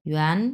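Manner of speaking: ইউয়ান starting low and rising; second tone. Shown as a demonstration. Teacher reading the word for money, rising ইউয়ান. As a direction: lift ইউয়ান like a question. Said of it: "দুই number tone".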